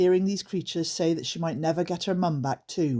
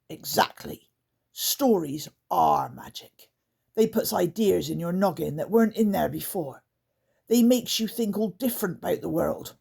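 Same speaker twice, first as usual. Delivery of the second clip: grumpy bark; 2 semitones higher than usual. Acted. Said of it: "barked Grunt grumpily".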